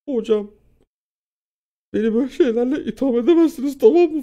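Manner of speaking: mock-crying protest, very high and loud; tearful protest. Student denying cheating to the teacher, loud mock-tearful protest. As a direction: wail it indignantly, imitating tears. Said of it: "Ağlayarak konuşuyorum".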